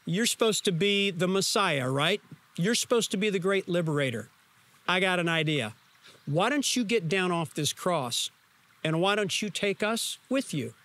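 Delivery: a sneering dare to Jesus; mock him with a snide, taunting edge; sarcastic, snide. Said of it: "it was sarcastic, it was snide".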